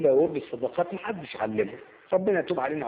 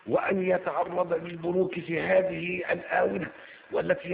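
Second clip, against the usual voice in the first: mock prosecutor speech; 4 semitones higher than usual. Lawyer mocking the prosecutor's speech, pompous rising oratory. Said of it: "يقول إيه بقى؟".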